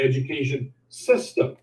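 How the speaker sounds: "system" set apart and stressed. Real, not acted. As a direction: put deliberate emphasis on the word "system". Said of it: "emphasis on the word system".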